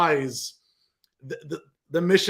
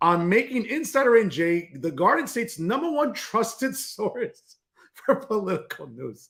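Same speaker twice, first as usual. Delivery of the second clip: slow delivery, laughing throughout. Reading a website's mission statement aloud, laughing while reading. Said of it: "without laughing".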